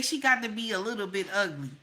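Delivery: quick mock quote. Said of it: "If a man get in here and say".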